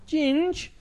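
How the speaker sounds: high call of a mate's name. Retold or imitated. In the dark hallway calling his mate, high call. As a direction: get his attention down the hall.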